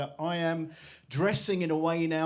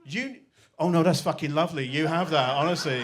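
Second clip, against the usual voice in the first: mock sarcastic anger. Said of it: "I was so angry".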